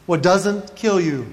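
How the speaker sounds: drawn-out deadpan proverb; slow mock fortune. Comic reads his reality fortune cookie, very slow mock proverb. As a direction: recite it slowly, stretching the final words.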